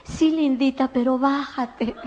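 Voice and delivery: a frightened friend tugging at her dress, pleading softly; scared plea. Retold or imitated. Frightened friend begs Lindita to get off the table: soft, scared plea. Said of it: "que asustada me jalaba del vestido".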